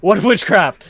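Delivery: loud, high indignant outburst; hammed-up shock, pitched high and loud; mock alarm. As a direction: demand it like you've been caught out. Acted shock at being overheard.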